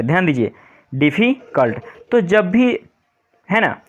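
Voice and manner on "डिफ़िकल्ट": डिफ़िकल्ट broken into its syllables, डिफी then कल्ट. Shown as a demonstration. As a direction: split डिफ़िकल्ट into spoken syllables for a class. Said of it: "तीन syllable वाले".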